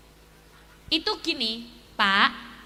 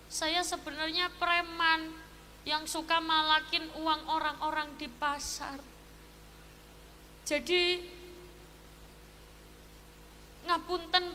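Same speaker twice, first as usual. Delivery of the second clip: sad confession; 5 dB quieter than usual. Acted. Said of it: "Sing premane langsung sedih".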